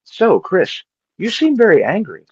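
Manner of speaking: high, soothing counselor; therapist voice. Retold or imitated. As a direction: play a gentle therapist. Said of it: "had a therapist be like".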